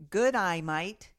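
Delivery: light Aussie twang on good eye mate; Australian accent. Shown as a demonstration. Host teaching co-host an Aussie greeting. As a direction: say it like a friendly Aussie. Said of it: "without sounding Australian".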